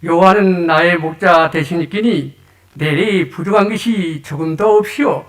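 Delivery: lightly imitated North Korean dialect; a hint of North Korean speech. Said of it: "북한 버전입니다". (가볍게 흉내 낸 북한 말투)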